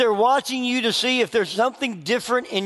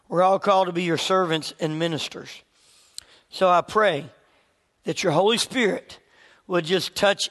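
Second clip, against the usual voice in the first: prayer; 2 semitones lower than usual. Acted. Opening prayer before the class.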